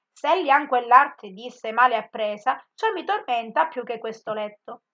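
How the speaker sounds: measured, weighty verse reading; poem recital. Acted. Teacher reciting Farinata's verses to the class, solemn. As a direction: recite Farinata's stillness with gravity. Reads Dante verse aloud.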